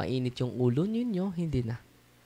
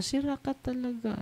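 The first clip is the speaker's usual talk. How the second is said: mock scolding; 10 semitones higher, 7 dB quieter than usual. Acted scolding of phone owner.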